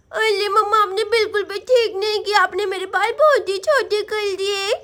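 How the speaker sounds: put-on lisping child voice, mildly hurt; little girl Sonam, complaining. Girl reproaching mama for the haircut, sulky. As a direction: scold like an upset small girl.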